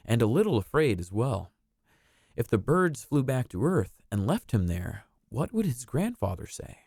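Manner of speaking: gentle storybook reading voice; storybook narrator. A narrator's reading. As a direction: read it like a bedtime story. Reads a storybook aloud.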